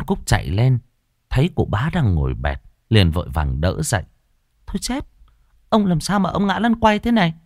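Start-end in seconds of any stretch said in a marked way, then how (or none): 4.7-7.3 put-on high, startled servant girl; alarmed young maid. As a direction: cry out high in alarm for the master. Maid finds master fallen. (giọng cô hầu gái cao, hốt hoảng)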